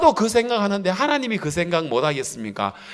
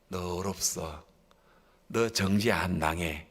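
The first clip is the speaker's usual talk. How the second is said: tender Spirit's voice; 9 semitones lower, 8 dB quieter than usual. Acted. The Holy Spirit comforting a believer, hushed and tender. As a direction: speak gently into one heart. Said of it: "하고 성령이 우리들에게 가르쳐 주실".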